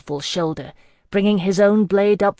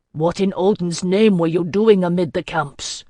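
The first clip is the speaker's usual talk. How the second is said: louder, exasperated question; annoyed demand; 5 dB louder than usual. Acted. Lord demanding why she was among the camps, louder annoyed. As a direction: push harder, mildly irritated. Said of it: "plainly annoyed".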